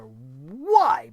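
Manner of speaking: low, loud scornful "Why?". Real, not acted. Host scoffs at fans' excitement, scornful. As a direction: drop a heavy, scornful "Why?". Ranting against contract signing.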